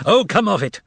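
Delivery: high stern rebuke; stern shout. Acted. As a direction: shut him down. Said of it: "shouted sternly".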